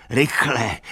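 first cry of alarm, still holding back; urgent call. A narrator's reading. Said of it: "křičel".

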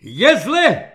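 high, loud cry of alarm; cracking alarmed cry. A narrator's reading. Agitated captain announces trouble to the officers, cracking cry. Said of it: "zvolal hlasem, který mu povážlivě přeskakoval".

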